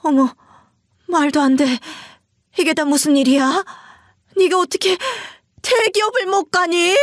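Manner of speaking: can't accept it; aghast disbelief. Acted. Mother-in-law reacting to failure.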